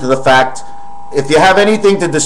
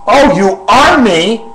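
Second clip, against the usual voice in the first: higher, slow, puzzled put-on voice; other voice; 6 semitones higher, slower than usual. Other persona asks if he is the speaker, higher slow voice. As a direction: ask it as the other persona, bewildered. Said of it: "that's my voice".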